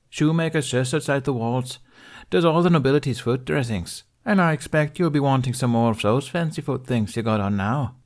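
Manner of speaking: lightly done chatty tailor; lightly voiced tailor woman. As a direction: rattle off directions to a stranger. Narrator voices Winifred rattling on.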